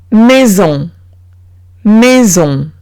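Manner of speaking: "maison" with a buzzed z in the middle. Shown as a demonstration. Teacher modelling S between two vowels, buzzed z. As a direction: say "maison" as may-zon, nasal on at the end. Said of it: "se pronuncia como la Z".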